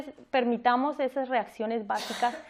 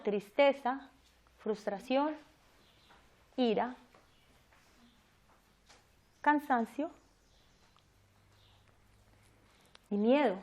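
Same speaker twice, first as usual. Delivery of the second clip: slow dictation; 4 dB quieter than usual. Shown as a demonstration. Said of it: "si lo quieren apuntar".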